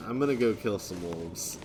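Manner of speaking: casual, unruffled calm. Real, not acted. Streamer announcing he'll go kill some wolves, calmly. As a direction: say it calmly, matter-of-fact. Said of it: "I said that so calmly".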